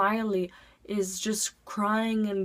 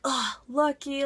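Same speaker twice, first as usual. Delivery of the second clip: drawn-out, higher envious classmate; mock jealous; 5 semitones higher than usual. Classmates envying the chosen kid, mock jealous. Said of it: "They get so jealous".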